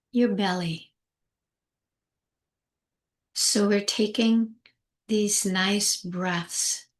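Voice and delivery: slow meditation guide with long pauses; unhurried, spacious calming guidance; guided meditation. Acted. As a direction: ease them gently inward, phrase by phrase.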